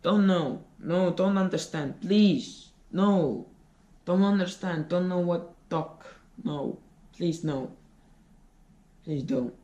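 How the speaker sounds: flustered foreigner pleading no; broken foreign English. Acted. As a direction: stammer out broken English refusals.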